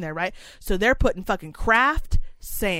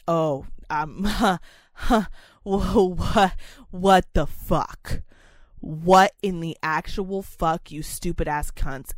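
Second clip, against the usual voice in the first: mock outrage; 4 semitones lower, slower than usual. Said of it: "'cause I was mad".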